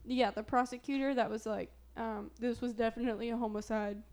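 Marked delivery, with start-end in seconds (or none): 2.4-4.0 homicide with a long HOME start; odd regional pronunciation. Real, not acted. Quoting the prosecutor to her co-host, homicide said as HOME-icide. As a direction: let homicide open like HOME. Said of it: "Why do I keep saying it like that".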